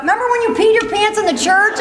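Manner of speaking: teasing laughter. Retold or imitated. Family teasing, laughing loud.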